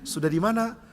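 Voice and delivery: lenient check-in, a bit high; patient, unbothered question; tolerant, forgiving. Acted. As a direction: ask easily, ready to forgive. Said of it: "biasanya lebih toleran dan pemaaf".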